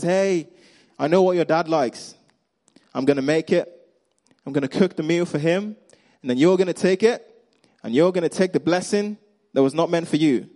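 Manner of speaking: a hint of a plotting mum, lifted pitch; sneaky mom. Preacher playing Jacob's mom telling her son the plan, lightly acted sneaky. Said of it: "His mom is sneaky and she says".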